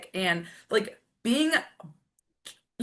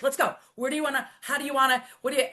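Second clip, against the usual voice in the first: higher, rapid-fire coach hype; pumped-up motivator; 6 semitones higher, much faster than usual. Retold or imitated. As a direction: fire them up like a gym coach. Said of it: "I'm more of a motivator".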